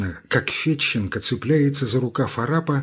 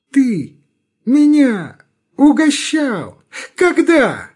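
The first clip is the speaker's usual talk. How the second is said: much higher, indignant surprise; perking up; 11 semitones higher, 5 dB louder, much slower than usual. A narrator's reading. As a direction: rise up in mock disbelief. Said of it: "вдруг оживляется".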